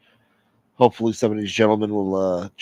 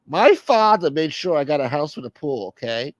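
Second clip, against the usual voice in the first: slightly raised, insistent bragging; boastful high-voiced figure; 6 semitones higher than usual. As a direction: insist on it in the put-on voice.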